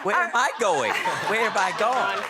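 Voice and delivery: put-on very high, strained old man voice. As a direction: play a lost, fretful grandpa. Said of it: "even more attracted with the old man voice".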